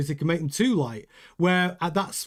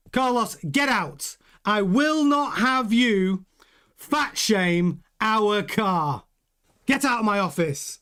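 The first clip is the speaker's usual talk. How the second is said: slow, higher mock-outraged order; indignant boss; 4 semitones higher, slower than usual. The boss ordering Carlos out of his office, hammed-up outrage, slow and high.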